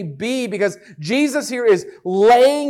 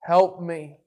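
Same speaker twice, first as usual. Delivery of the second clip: slow, understated imitation of begging; mock pleading; much slower than usual. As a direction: imitate someone pleading in prayer. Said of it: "begging and pleading".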